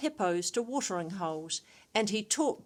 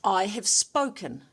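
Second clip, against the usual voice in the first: stern; 4 dB louder than usual. Acted. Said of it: "said Leo's mum sternly".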